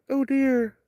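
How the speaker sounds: soft high gasp at the deer; hushed surprise. Real, not acted. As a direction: breathe it out, amazed.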